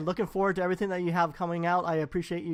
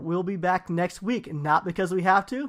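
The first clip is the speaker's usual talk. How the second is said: announcer sign-off. Shown as a demonstration. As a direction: close the show like a broadcaster. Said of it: "Take three".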